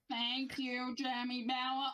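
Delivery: telling the podcast how the ride thanked him, lightly voiced creepy alien. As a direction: mimic the alien thanking you. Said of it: "creepy E T voice again".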